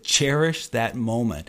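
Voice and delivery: slow, emphatic professor's counsel; retold solemn urging; earnest advice. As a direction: press each word home, slowly. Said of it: "grabbed me by the shoulder and pointed his finger".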